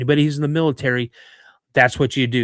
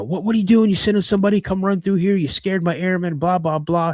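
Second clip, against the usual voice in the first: imitated argument, pitched up without much volume; mock yelling; 5 semitones higher than usual. Instructor berating another over the ambush, mock yelling. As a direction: retell a heated telling-off in a higher voice. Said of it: "They started yelling at each other".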